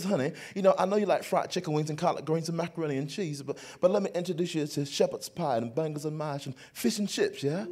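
lightly imitated London wife; mimicked British accent. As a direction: coax in a put-on British accent. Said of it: "she talked with this accent just like this".

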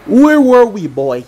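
brash lisping villain. Acted. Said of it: "a brash, lisping voice".

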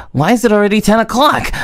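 high, fast alarmed blurt; panicked realization. Acted. Girl noticing the clock on a call, alarmed and rushed. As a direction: suddenly realize you've overslept.

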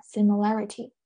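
"similarity" with main stress on its third syllable. Shown as a demonstration. Teacher repeating for students where stress falls, "similarity" stressed on -la-. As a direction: put the weight on -la- in "similarity". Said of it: "是在这儿".

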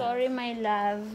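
slow, tender sorry to the son; tender apology. Real, not acted. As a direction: soothe him gently. Apologising to son after prank. (malambing na paumanhin)

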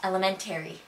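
Buffalo-accented "Elementary". Shown as a demonstration. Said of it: "The Miami accent and the Buffalonian accent".

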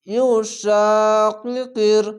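very slow tajweed reading, vowels held; Quran recitation. Shown as a demonstration. Teacher putting the spelled word together, slow recitation. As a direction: chant the word out slowly and evenly.

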